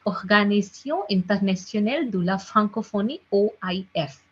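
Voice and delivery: the name read in a proper French accent; careful French accent, throaty R. Shown as a demonstration. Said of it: "if I read in a proper French accent".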